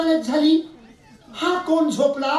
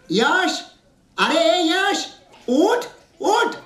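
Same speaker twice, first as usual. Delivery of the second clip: higher, drawn-out wake-up call; waking a sleeper; 4 semitones higher, much slower than usual. Acted. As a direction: call to rouse a sleeping boy. Warden waking sleeping pupil. (झोपलेल्याला हाक मारून उठवणे)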